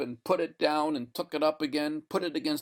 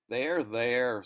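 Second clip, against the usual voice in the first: gentle. Acted. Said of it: "said the man gently".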